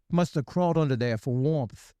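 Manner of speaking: a hint of a deadpan mobster line; lightly voiced mob guy; Sopranos impression. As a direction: drop it like a TV mobster. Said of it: "That was a great impression".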